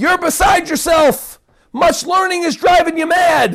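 loud, high-pitched shouted outburst. Retelling how one man shouted to interrupt another, with a loud shout. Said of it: "Loud voice".

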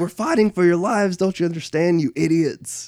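play-acted, graceless, shrill, very high yelling. Retelling how Vegeta rallies the people: imitating Vegeta yelling. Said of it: "yelling at people".

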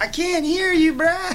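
very high-pitched mock deaf-sounding gimmick voice. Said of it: "That's that new gimmick".

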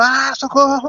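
put-on, shrill, very high, panicked scream. Speaker retells being stuck in a locked bathroom, re-enacting screaming for help. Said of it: "E eu gritava dentro do banheiro".

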